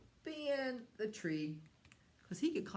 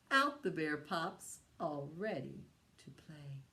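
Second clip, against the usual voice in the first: rhyme recital. Acted. Teacher leading a bear finger rhyme for children. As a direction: recite the rhyme for little ones.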